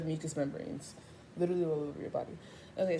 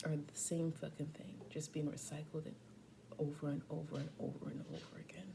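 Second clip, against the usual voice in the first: whisper; 2 semitones lower, 6 dB quieter than usual. Real, not acted. Musing on life.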